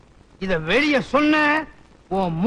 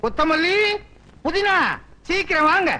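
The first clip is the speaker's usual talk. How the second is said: raised pitch, calling them over; 4 semitones higher than usual. Acted. Husband calling wife and sister-in-law to come quickly, calling out. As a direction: summon them with stretched names.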